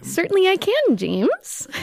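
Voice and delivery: light, lightly voiced hunky samurai; a hint of a smooth hunky ronin. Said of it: "in your hunkiest, most Ronin voice".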